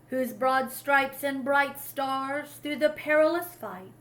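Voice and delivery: solemn, measured reading of verse; poem recital. Acted. Narrator closes the story by reciting the anthem poem, solemn. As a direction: recite it like a proud anthem, fading at the end.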